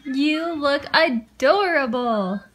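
slow, tender praise; cooing. Real, not acted. Mother cooing at baby.

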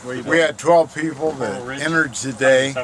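stiff, numb lips from the cold; cold mouth. Real, not acted. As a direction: mouth too cold to talk normally. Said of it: "but my mouth is cold".

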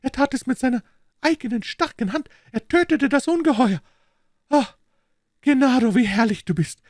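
high, rapturous Italian wife praising her husband; proud delight. A narrator's reading. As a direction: glow with pride and adoration. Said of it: "erstrahlte ihr Gesicht in Stolz und Entzücken". (stolze, verzückte Italienerin, hohe Stimme)

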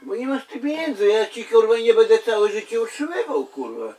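loud cursing rant; angry. Real, not acted. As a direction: bark it angrily. Angry swearing at him.

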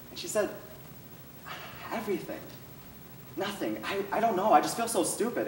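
put-on a young caller trying to play it down; scared young girl. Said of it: "young, cute, but scared voice".

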